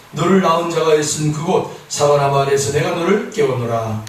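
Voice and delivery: solemn reading from the Song of Songs; scripture reading. Acted. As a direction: read the verses steadily. Reads scripture passage.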